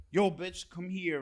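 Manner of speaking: bossy, loud hey-you call; rough callout. Retold or imitated. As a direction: bark it at a friend rudely. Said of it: "there's a difference between saying".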